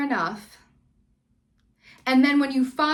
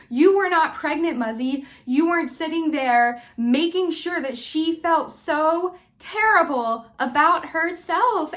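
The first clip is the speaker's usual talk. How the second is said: higher and louder, slowing down to drive it home; angry scolding; 4 semitones higher, 3 dB louder than usual. Real, not acted. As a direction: tell her off straight to her face. Scolding Muzzy at the screen.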